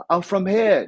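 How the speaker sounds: put-on high, loud teenage insistence; imitated defensive younger self; defensive new kid. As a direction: claim it like a nervous kid bluffing. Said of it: "I was like".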